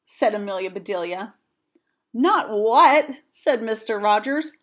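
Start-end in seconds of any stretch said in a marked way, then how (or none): 2.1-3.1 higher and louder, exasperated; fed-up husband correcting her. Acted. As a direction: push back in rising frustration. Mister Rogers exasperated.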